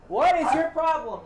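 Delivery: high, squeaky pet voice, scolding. Real, not acted. Scolding the barking dog in a high pet-talk voice.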